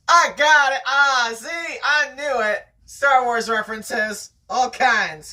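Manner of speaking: pleased, loud burst of I-knew-it; excited. Real, not acted. Reader bragging to a friend about guessing right, excited. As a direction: crow about spotting the pattern.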